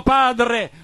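preacher's impassioned quoting of a cry; retold cry. Preacher retelling Jesus' words on the cross, retold cry. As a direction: cry it out as part of the sermon. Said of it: "Gesù gridò subito dopo".

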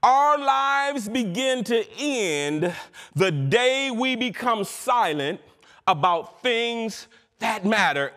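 slow, weighty oratory; solemn quotation. Real, not acted. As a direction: measure out each phrase with weight.

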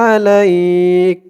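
আলাইক ending clipped on লাইক; slow clipped আলাইক; pausal form. Shown as a demonstration. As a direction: stop on লাইক, no vowel. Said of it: "লাইক হবে".

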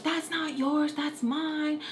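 high-pitched bratty claim; mock possessive protest. Little girl claims the brushes from makeup artist, mock indignant. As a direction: imitate a little girl insisting it belongs to her.

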